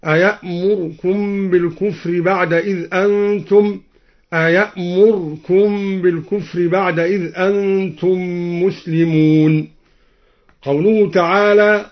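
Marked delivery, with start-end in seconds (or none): 0.1-3.8 أيأمركم with a fleeting u after the r; clipped r vowel. Shown as a demonstration. Teacher showing the first option, أيأمركم with reduced r vowel. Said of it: "مع ملاحظة اختلاس الراء أو إسكانها". 4.3-9.7 أيأمركم with r closed straight onto k; silenced r. Shown as a demonstration. Teacher showing the second option, أيأمركم with unvowelled r. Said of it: "أو إسكانها".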